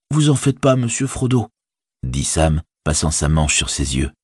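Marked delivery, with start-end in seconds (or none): 0.1-1.5 high-pitched hobbit servant; forgiving Sam. A narrator's reading. Servant brushing off his master's apology, high and reassuring.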